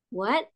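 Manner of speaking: "What" rising as if startled; mock surprise. Shown as a demonstration. Teacher likening tone two to surprise, rising "What". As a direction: lift "What" like a surprised question. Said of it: "kita kaget".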